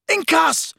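high, cut-off roar; roared spell. A narrator's reading. Harry attacking Snape, roared. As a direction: roar the curse out. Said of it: "Harry roared".

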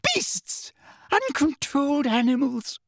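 very high, thin shriek; high-pitched hysterical outburst; screamed insults. A narrator's reading. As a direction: screech abuse in panicked disgust. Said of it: "she screamed".

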